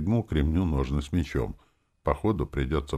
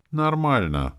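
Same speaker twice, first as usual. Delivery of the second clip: feigned casual; 11 semitones higher, 5 dB louder, slower than usual. A narrator's reading. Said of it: "делано небрежно".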